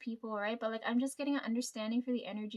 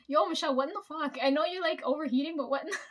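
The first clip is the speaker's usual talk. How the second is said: shocked outburst; 3 semitones higher, 4 dB louder than usual. Retold or imitated. Shocked reaction to Michelle.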